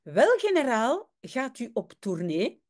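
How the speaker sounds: put-on Dutch read with a light Spanish accent. Teacher reading Tintin voices the general in mock Spanish accent. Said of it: "on essaie d'imiter l'accent espagnol du général".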